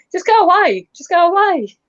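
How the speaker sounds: high, laughing get-lost; laughing dismissal. Retold or imitated. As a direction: laugh while telling them to jog on. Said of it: "I'm like".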